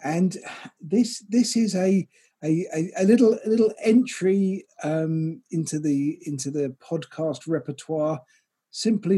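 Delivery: smooth, measured announcer delivery; radio presenter voice. Acted. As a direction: read it like a radio host. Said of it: "you've never sounded quite like a radio presenter".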